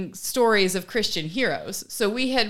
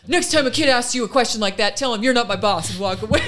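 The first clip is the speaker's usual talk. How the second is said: louder, quick retold scolding; mock indignation; 4 dB louder, faster than usual. Mimicking the other mom instructing her kid, mock indignant. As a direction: imitate a huffy parent, breaking into a laugh.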